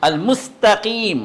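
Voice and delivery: المستقیم drawn out slowly with a thin س; slow demo. Shown as a demonstration. Teacher stretching المستقیم to show the thin sin. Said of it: "اس میں سین ہے".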